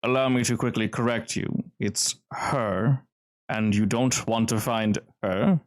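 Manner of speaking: polite but firm correction; lightly voiced decisive host, measured warning; smooth gentleman. Host corrects intruder hunting the shark, smooth and firm. Game master plays smooth stranger.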